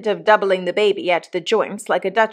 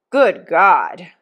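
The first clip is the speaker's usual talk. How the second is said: loud outburst of exasperation; desperate cry; 5 dB louder than usual. A narrator's reading. Mister Pocket crying out at his wife, desolately desperate. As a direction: burst out in despair. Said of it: "cried Mister Pocket in an outbreak of desolate desperation".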